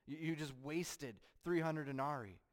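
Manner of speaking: Judas snapping at the woman over wasted money. Acted. Judas rebukes Mary for wasting perfume, loud angry voice. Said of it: "Judas raises his voice and says".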